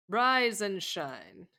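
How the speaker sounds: very slow, stretched rise and shine; drawn-out wake-up call. Acted. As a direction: drag the words out to wake her.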